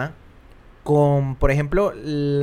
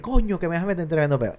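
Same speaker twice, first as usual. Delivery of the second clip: Venezuelan exclamation; 3 semitones higher, faster than usual. Retold or imitated. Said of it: "Y el tipo dice".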